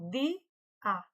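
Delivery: "de A" said as two separate syllables; syllable separation. Shown as a demonstration. Teacher shows the hiatus split in two, separated "de A". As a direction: break "de" from "A" with a clear pause. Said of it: "na sua separação".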